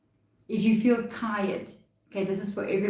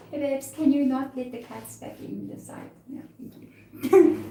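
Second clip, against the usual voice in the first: raised voice calling across the house; 5 semitones higher than usual. Real, not acted. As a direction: call out to someone in another room. Calling to someone off-camera.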